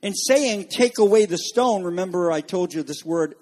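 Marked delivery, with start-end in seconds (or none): 0.7-1.8 slightly raised, firm order; voicing an authoritative order; authoritative command. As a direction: give it as a strong command. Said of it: "with a strong and authoritative voice".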